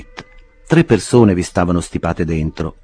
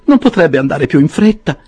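higher, louder impatient lady; Mrs Rogers exclaiming; 10 semitones higher, 6 dB louder than usual. A narrator's reading. Mrs Rogers fretting at the clerk, higher impatient voice. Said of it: "esclamò la signora Rogers".

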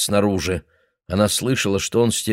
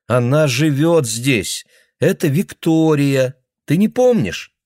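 daughter explaining; 6 semitones higher, 4 dB louder, slower than usual. Acted. Daughter reminding father.

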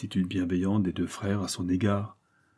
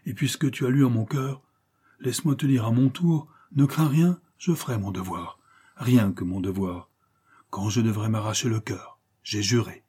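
impassioned vow; 4 dB louder than usual. Acted. Judex reassures his brother he will do his duty, impassioned. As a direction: swear it earnestly to a brother.

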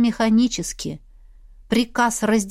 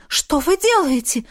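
alarmed maid; 8 semitones higher than usual. Acted. Noni voiced.

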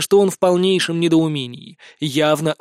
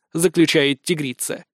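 plain reading voice

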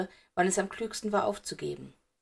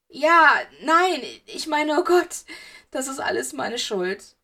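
much higher, louder frantic outburst; panicked sobbing; 6 semitones higher, 7 dB louder, slower than usual. A narrator's reading. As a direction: break down in hysterical guilt. Sobbing boy confesses in panic.

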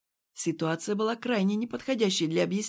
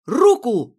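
a loud one-word yell; shout; 5 semitones higher, 11 dB louder than usual. A narrator's reading. Kirill yelling at Irene, a loud shout. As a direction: bark the single word hard. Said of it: "крикнул я".

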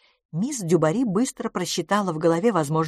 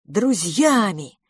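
slow indignant repeat of Друзьями; outburst; 3 semitones higher, 3 dB louder, much slower than usual. Acted. Tony throws the word back at Edith, slow outburst. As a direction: hammer Друзьями out slowly. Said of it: "снова взорвался Тони".

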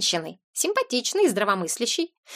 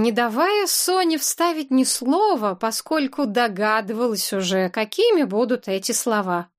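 ordinary delivery

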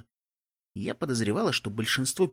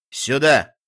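loud call from ahead; 7 dB louder than usual. A narrator's reading. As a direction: call out to get attention. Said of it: "Стилхуфс окликнул меня".

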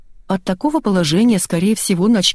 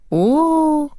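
surprised exclamation; 9 semitones higher than usual. A narrator's reading. Doctor exclaims over the dog.

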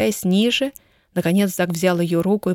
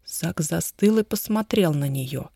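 plain reading voice

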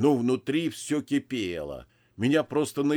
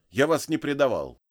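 curt; 4 semitones higher, 5 dB louder than usual. Acted. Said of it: "коротко бросил я".

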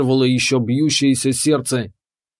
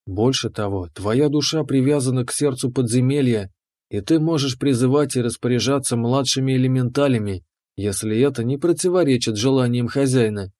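calm keeper. Acted. Keeper explains.

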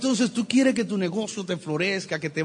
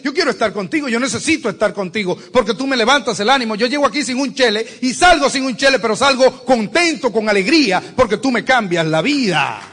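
grateful friend; 5 semitones higher, 7 dB louder than usual. Acted. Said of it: "que dices".

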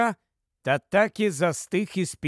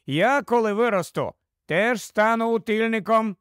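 put-on higher-pitched child announcing proudly; little boy's voice; 5 semitones higher than usual. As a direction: lightly voice a boy butting in. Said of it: "знову втрутився до розмови Пітер". (дитячий голос хлопчика)

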